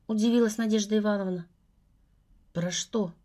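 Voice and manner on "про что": darkening. A narrator's reading. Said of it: "стремительно мрачнее спросил он".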